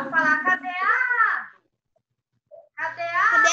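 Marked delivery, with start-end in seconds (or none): 0.4-1.5 loud, drawn-out call on cadeado; calling the word. Shown as a demonstration. Teacher demonstrating for the class, calling out. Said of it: "Como é que eu vou falar?". 2.7-3.5 cadeado called out loudly, leaning on the stressed A; strong syllable stressed. Shown as a demonstration. Teacher quizzing pupils on the stronger syllable, cadeado called with stressed A. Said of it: "Aonde que eu falei mais forte?".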